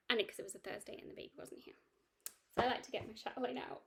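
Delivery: talking through hiccups; words broken by hiccups. Real, not acted. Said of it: "I've got the hiccups".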